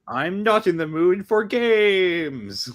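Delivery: slow, high furious yell. Acted. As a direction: shout it out in fury. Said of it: "yells into the void furiously".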